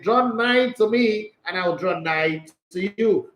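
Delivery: slow, solemn King James quote; mock-solemn Bible verse; King James reading. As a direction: intone it like old scripture. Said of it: "Bible says".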